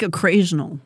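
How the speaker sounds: "occasional" with an extra r, as "occrasional"; mimicked slip. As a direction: echo the slip in "occasional": "uh-CRAY-zhun-ul". Teases the slipped word.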